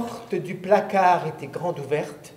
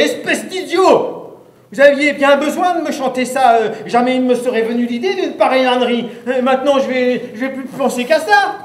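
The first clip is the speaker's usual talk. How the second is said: high, loud scolding shout; angry shout; 5 semitones higher, 4 dB louder than usual. Acted. Narrator shouts at the singer, high and furious. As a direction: yell at the fool who sang it. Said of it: "je me mets à crier".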